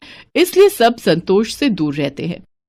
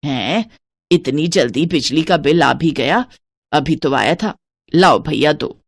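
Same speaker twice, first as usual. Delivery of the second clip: put-on lower, bossy miserly old woman; lightly lowered stingy mother-in-law voice; 4 semitones lower than usual. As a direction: count every piece like a miser. Santosh at the door.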